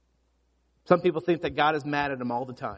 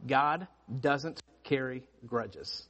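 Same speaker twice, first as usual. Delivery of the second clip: slow and soft, "God doesn't carry grudges." drawn out for note-taking; dictating; 3 semitones lower, 5 dB quieter, much slower than usual. Shown as a demonstration. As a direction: read "God doesn't carry grudges." slowly and quietly so they can write it. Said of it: "Just write".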